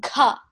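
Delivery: ka pushed from deep in the throat; throaty teaching demo. Shown as a demonstration. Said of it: "From your throat".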